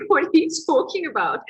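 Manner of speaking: retold disbelief, quick and sharp; indignant. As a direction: fire it back at the counselor. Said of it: "I was so pissed off with him".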